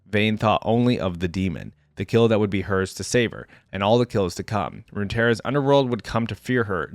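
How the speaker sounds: dramatic reading, slowing at the end; story narration. A narrator's reading. Reader closes the tale of Vayne's hunt, dramatic narration. Reads the story's ending aloud.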